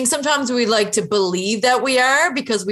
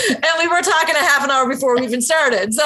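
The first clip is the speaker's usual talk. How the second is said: talking through laughter; giggling mid-sentence; laughing; 6 semitones higher, faster than usual. Real, not acted.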